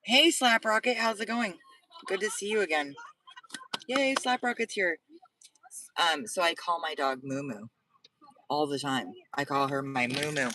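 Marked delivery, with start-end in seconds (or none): 0.0-5.0 high, bright welcome to a newcomer; excited greeting. Real, not acted. Streamer greeting viewer Slap Rocket who just joined, excited and high. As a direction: cheer the arrival.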